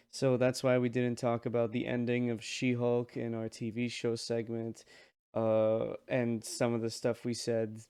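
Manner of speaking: quiet and a bit hoarse; quiet, sore throat. Real, not acted. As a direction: talk softly through a sore throat. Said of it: "right now I sound kinda quiet because my throat really hurts".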